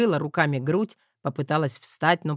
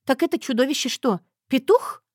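higher, louder amazed wife's voice; astonished wife; 10 semitones higher, 3 dB louder than usual. A narrator's reading. Wife astonished the monster was a rooster, higher voice. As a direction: disbelief rising high.

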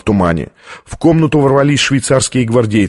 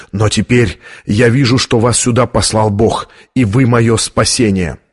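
plain reading voice

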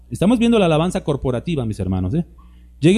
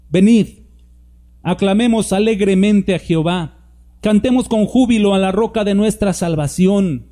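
inviting call; 4 semitones higher than usual. Shown as a demonstration. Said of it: "Es una invitación".

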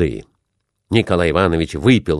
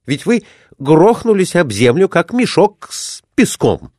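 scolding; 10 semitones higher, 3 dB louder than usual. A narrator's reading. Gentleman scolding the fallen man.

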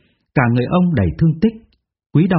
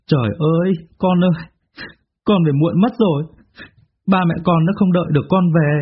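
weeping lament; 4 semitones higher than usual. Acted. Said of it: "đã bật khóc nức nở".

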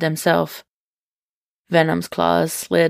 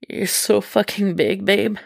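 moaned; 3 semitones higher than usual. Acted. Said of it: "he moaned".

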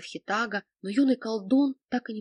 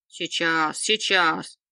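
louder hurried promise through pain; strained promise; 2 semitones lower, 5 dB louder, much slower than usual. A narrator's reading. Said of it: "невнятно пообещал Велизар".

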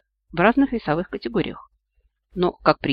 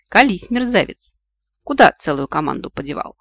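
angry demand; 2 semitones higher, 4 dB louder than usual. Acted. Heroine grabbing the healer and demanding where the team is, angry. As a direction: shake the truth out of him. Heroine grabs and threatens Max.

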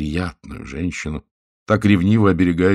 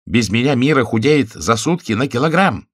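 noisy merry confiding; 6 semitones higher, 5 dB louder than usual. A narrator's reading. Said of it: "шумно засмеявшись".

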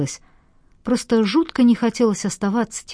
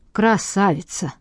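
mocking snort. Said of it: "фыркнула насмешливо Марина".

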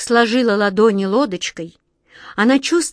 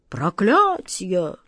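loud, outraged cry, rising in pitch; yelling; 3 semitones higher, 4 dB louder, slower than usual. A narrator's reading. King discovering the girl in the hall, yelling. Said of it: "завопил король".

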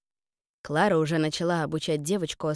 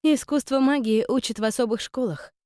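put-on higher-pitched, mildly cross girl; a touch of irritation, pitched up; cross grumble; 7 semitones higher, 3 dB louder than usual. A narrator's reading. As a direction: grumble it in a raised young voice. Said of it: "сердито пробурчала Аста".

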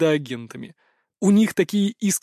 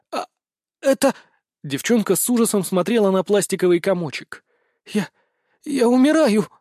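terrified; 5 semitones higher than usual. Acted. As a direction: gasp it out in terror. Zoe terrified. (высокий испуганный вскрик)

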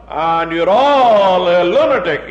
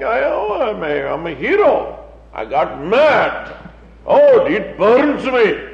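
mock pride. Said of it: "they say it with pride".

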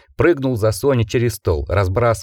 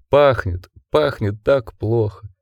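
1 weak, slow dying wolf voice; slower than usual. A narrator's reading. Dying wolf weakly complains.

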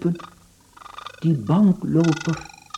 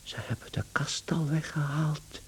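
soft unvoiced whisper; hushed whisper; 10 dB quieter than usual. Gregor laments to himself, in a whisper. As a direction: breathe it out like a secret lament.

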